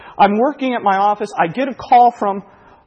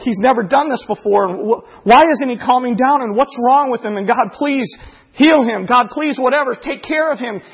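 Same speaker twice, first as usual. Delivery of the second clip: mildly frantic, raised-pitch plea; retold prayer, pitched up with mounting worry; worried pleading; 6 semitones higher than usual. Father retelling his prayer over a screaming baby, worried pleading.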